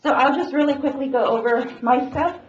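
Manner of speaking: muffled behind a face mask; through a face mask. Real, not acted. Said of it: "it's really hard to talk with these masks".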